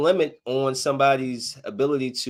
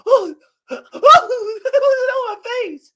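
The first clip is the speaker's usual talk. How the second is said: high-pitched laughing words; 10 dB louder, slower than usual. Real, not acted. Watching a wild party clip, laughing.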